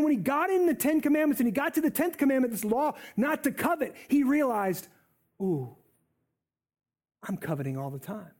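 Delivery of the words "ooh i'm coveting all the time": dawning realization. Acted. Saul's sudden guilty realization.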